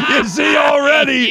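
high shouted laughter breaking into words; laughing. Real, not acted. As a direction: laugh hard through the words. Teller cracks up at own joke.

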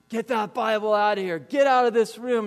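mock outburst, building in force; irate brother. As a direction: imitate a brother throwing someone out. Brother acted out, ordering him out.

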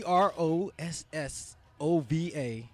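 spelled letter by letter, slowly: C R O S S O V A. Shown as a demonstration. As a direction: spell C R O S S O V A, each letter clearly.

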